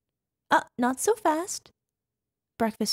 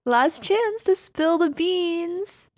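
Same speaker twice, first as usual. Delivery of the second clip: slow, higher, louder playful threat; mock menace; 6 semitones higher, 4 dB louder, slower than usual. Mrs. Claus mock-threatening her partner to talk. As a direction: draw out the playful ultimatum.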